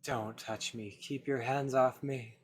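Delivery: loud, slow snarl; hostile warning. Acted. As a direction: push her away with the voice. Waking in pain, rejecting help.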